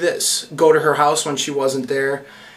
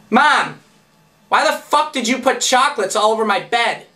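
put-on annoyed girlfriend; 7 semitones higher than usual. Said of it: "and she's like".

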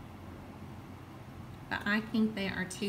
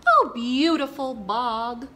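slow, louder croak of a dreamy frog; 5 dB louder than usual. Acted. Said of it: "croaked McGog".

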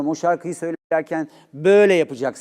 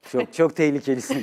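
laughing. Real, not acted. Teasing reply to a bold remark.

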